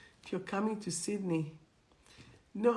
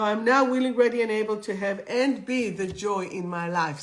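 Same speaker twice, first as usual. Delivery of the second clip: louder affirmation, now pushed up; strong affirmation; 2 semitones higher, 6 dB louder than usual. Shown as a demonstration. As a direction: declare it for all to repeat. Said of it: "Say it with me".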